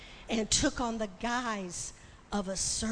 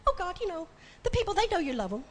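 breezy, dismissive brush-off, faster; flippant; 5 semitones higher, much faster than usual. Retold or imitated. Preacher retelling her careless reply to God, flippant and quick. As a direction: toss it off like it's obvious. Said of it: "I said, so flippantly".

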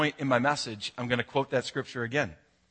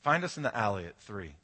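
soft, hushed repeat; 4 semitones lower, 6 dB quieter than usual. Retold or imitated. Soft hushed echo. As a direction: drop the voice and let the words sink in. Repeats quote softly, slowly.

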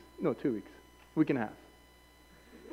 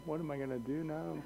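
quiet self-talk; 3 semitones lower, 15 dB quieter than usual. Retold or imitated. Awake alone in dark.

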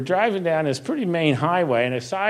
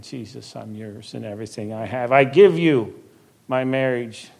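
heartfelt prayer; 4 dB louder than usual. Acted. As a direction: pray it aloud as a personal vow. Recites his prayer again.

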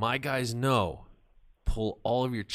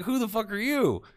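much higher, louder retold outburst; mock indignant shout; 13 semitones higher, 6 dB louder than usual. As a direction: throw the question at her, pitched way up. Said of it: "And I'm like".

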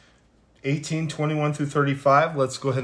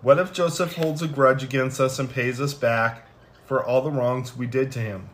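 steady, measured Bible reading; scripture reading. Acted. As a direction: read the passage aloud with care. Reads Genesis scripture aloud.

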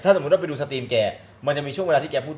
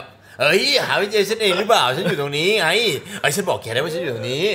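mildly exasperated, higher-pitched phone quarrel; acted exasperation; 4 semitones higher than usual. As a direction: act out bickering over directions. Acts out getting lost by phone.

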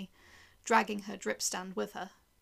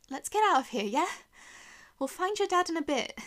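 raised pitch, louder, encouraging; coaxing a child; 8 semitones higher, 6 dB louder than usual. Acted. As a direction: coax a dazed little girl along. Coaxing dazed child to leave.

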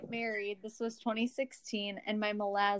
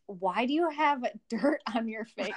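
laughing quote; 3 semitones higher, 3 dB louder than usual. Retold or imitated. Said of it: "Henry came over and was like".

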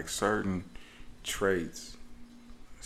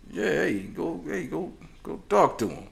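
lightly voiced Italian mom, pitched higher; 7 semitones higher than usual. Daughter sends dad on an errand, mock Italian mom. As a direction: push him to go, like an insistent Italian mom. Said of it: "it almost felt like an Italian mom".

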